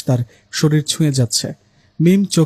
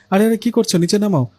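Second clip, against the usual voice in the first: panicked; 6 semitones higher than usual. Acted. Mim hanging upside down, panicking.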